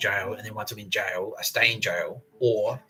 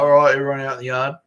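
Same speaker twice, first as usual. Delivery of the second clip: raised, louder mock command; retold called order; 4 semitones higher, 9 dB louder than usual. Screws sending everyone out to the yard, retold called order. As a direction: call it out like an officer herding prisoners.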